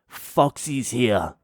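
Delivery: slow, drawn-out warning; ominous girlfriend. Retold or imitated. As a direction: drag out the warning. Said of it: "she's like".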